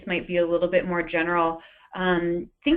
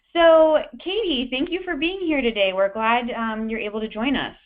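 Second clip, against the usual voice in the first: reporter voice; 2 semitones higher than usual. Pretend. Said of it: "I'll try to put on my best reporter voice".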